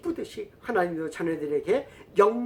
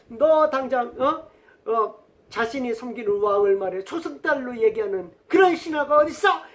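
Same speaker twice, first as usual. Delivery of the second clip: raised, scolding outburst; angry king; 2 semitones higher, 4 dB louder than usual. Retold or imitated. The small kingdom's king berates his envoy in a raised angry shout. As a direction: yell at the envoy as a furious king. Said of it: "화가 나가지고".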